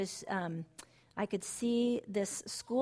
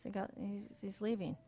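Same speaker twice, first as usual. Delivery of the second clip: imitating a whisper; 7 dB quieter than usual. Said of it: "talking literally like this".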